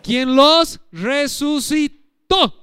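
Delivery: Quien los resucitó, very slow, last O stressed. Shown as a demonstration. Preacher showing the accent on resucitó, very slow. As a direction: stretch out resucitó and hit the final O. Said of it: "con acento en la O".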